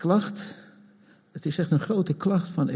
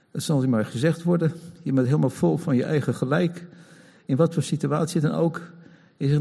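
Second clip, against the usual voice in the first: normal talking voice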